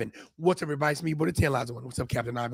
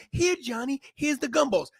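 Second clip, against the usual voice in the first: pushover mom; 6 semitones higher than usual. Retold or imitated. Lax mom soothing her whining son, mildly voiced. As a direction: give in sweetly to the child. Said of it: "the mom goes".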